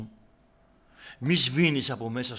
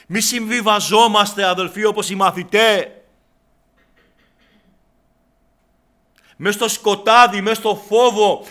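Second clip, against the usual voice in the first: much louder and higher, urgent exhortation; preaching at full force; 9 semitones higher, 15 dB louder than usual. Real, not acted. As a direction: cry it out to the church. Climax of sermon. (κήρυγμα με όλη τη δύναμη)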